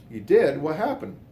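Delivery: high, loud startled reply; imitating shocked. Brother-in-law hearing of house fire, high startled cry. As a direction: blurt it out in shock.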